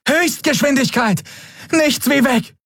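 high, urgent command to flee; breathless escape order. A narrator's reading. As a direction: get us out of here, fast.

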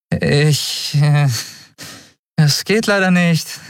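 put-on high, stammering young voice; flustered kid making excuses; nervous boy. A narrator's reading. Frightened boy stammers to the beast, high and nervous.

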